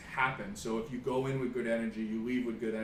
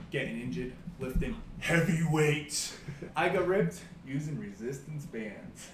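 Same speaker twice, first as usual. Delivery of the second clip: hyped-up pro wrestler promo; wrestling promo; 4 dB louder than usual. Pretend. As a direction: brag like a wrestling heel on the mic. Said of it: "Are you ready to cut a promo?".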